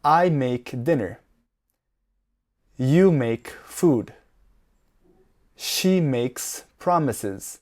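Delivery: slow, spaced words for learners to repeat; measured language-teacher delivery, slowly; slow model sentences. Shown as a demonstration. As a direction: say each short sentence slowly and clearly. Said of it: "I am going to say each sentence slowly".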